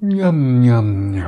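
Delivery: voice dropping on "miam". Demonstrating the voice dropping as a yawn ends, pitch falling on miam. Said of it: "indem auch die Stimme nach unten fällt. Ich versuche euch das mal vorzumachen".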